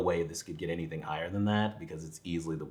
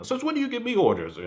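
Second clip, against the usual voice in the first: high, loud hammed-up indignant yell; mock Tommy outburst; 6 dB louder than usual. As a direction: throw the line like an outraged bad actor. Mock-quoting Tommy's movie line.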